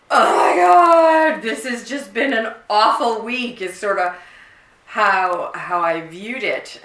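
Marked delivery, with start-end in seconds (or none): 0.1-3.6 much higher, louder, slow near-sob; crying out. Retold or imitated. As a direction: wail about an awful week. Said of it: "And I was just like".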